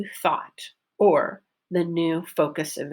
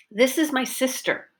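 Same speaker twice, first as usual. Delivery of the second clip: higher pitch on "sister", then falling; focus stress; 5 semitones higher than usual. Shown as a demonstration. Teacher models a practice sentence, focus stress on "sister". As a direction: make "sister" the focus word with a clear vowel. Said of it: "pronounce it with the pitch change".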